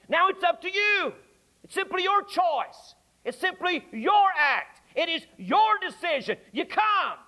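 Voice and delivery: rising, urgent plea from the pulpit; fervent preaching. Acted. Preacher pleading with the congregation, urgent and rising.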